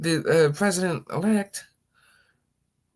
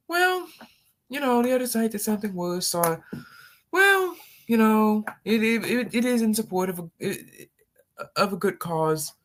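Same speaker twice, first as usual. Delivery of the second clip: mocking excuse-maker; 5 semitones higher than usual. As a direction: play the weaselly excuse, higher.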